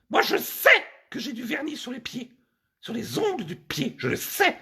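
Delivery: high-pitched, put-on female voice; insistent woman. Woman explaining the polish is for herself, insistent. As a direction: insist in a high comic falsetto.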